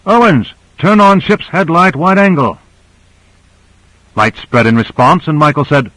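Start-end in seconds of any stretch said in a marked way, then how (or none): 0.1-2.6 high-pitched shouted command; narrated shout, pitched up; shouted order. A narrator's reading. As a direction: shout the instruction across to the ship. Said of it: "then shouted".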